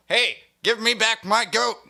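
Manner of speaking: high, slow, shouted mock yell. Yelling at the villagers to give back his goat. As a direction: holler it like a wronged farmer. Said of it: "I have to yell at them".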